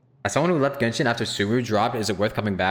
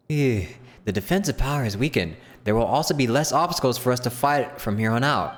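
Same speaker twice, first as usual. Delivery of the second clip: wondering then weary; higher character voice, curious; 6 semitones higher than usual. Acted. Streamer dubbing knights in the flooded ruins, curious then weary. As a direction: marvel at the water, then tire.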